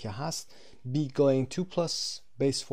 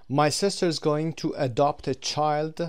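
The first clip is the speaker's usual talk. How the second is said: slow and louder example sentence; slow, loud model reading; 3 semitones higher, 6 dB louder, much slower than usual. Shown as a demonstration. Teacher reading the grammar example aloud, slow and louder. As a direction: project the example to the class. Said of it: "teacher models example".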